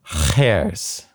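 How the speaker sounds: Khers with a long scraped kh, like hairs in the throat; throaty kh. Shown as a demonstration. Student practising Khers for the teacher, exaggerated throaty kh. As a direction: rasp the first sound of Khers in the throat. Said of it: "bear hairs in your throat".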